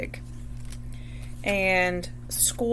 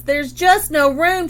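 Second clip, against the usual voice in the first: loud, high, slow wail; 5 semitones higher, 6 dB louder than usual. A narrator's reading. Mom wails at the zooming rabbit, loud and high. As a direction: wail it in despair. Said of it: "she wailed".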